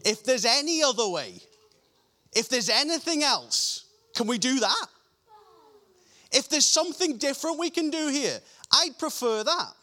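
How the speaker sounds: urgent plea, without real tears; pleading prayer. Acted. Jesus begging the Father for another way, urgent pleading. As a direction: plead for another way, pressing each phrase. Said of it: "he's on his knees crying before the Father".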